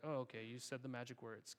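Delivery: mock genie reply. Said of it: "he's like".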